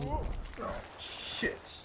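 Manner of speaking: soft exclamation in a British accent. Shown as a demonstration. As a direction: curse quietly in a put-on British accent. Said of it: "work on my exclamations as a British person".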